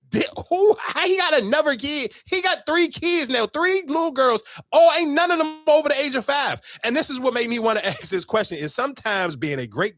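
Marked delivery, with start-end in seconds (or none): 0.1-6.6 high-pitched, stunned disbelief; scandalized head-count of the facts; incredulous. Retold or imitated. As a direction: retell it as a baffled rant, voice way up. Acts out reaction to third kid.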